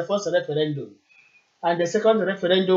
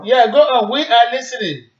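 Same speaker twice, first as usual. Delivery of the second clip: loud, raised encouragement; to someone hard of hearing; 4 semitones higher, 4 dB louder than usual. Real, not acted. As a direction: push your voice down the line. Caller on bad line.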